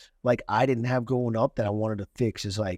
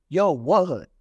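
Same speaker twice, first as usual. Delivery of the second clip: pissed off, raised pitch and level; retold angry challenge; 4 semitones higher, 5 dB louder, slower than usual. Snapping at a hostile pupil, retold anger. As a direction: act out snapping back at a heckler. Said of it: "actually pissed. Like, something in me just snapped".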